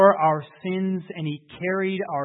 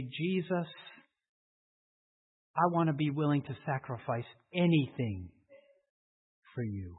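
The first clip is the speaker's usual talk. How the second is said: soft prayer; 4 dB quieter than usual. Acted.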